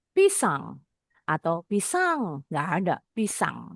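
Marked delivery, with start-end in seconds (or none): 0.1-0.8 "pisang" with the first syllable pushed up; wrong first-syllable stress. Shown as a demonstration. Teacher shows how Indonesians never say it, "pisang" stressed on the first syllable. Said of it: "kita nggak pernah nyebut". 1.6-2.4 "pisang" slow, with the second syllable stretched; wrong second-syllable stress. Shown as a demonstration. Teacher shows another unused stress, "pisang" stressed on the second syllable. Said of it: "kita nggak pernah nyebut".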